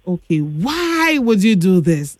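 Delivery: calm, controlled questioning after a deep breath; composed mom. Retold or imitated. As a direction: lightly imitate a mother keeping calm. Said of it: "took a deep breath in and out".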